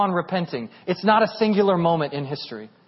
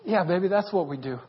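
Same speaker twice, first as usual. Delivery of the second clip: tender retold dad; 3 semitones lower, 6 dB quieter than usual. Dad tenderly answers daughter's apology.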